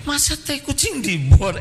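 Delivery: high, amused incredulous question; laughing mock disbelief. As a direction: scoff at it as if it's absurd. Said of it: "Saya merasa lucu banget".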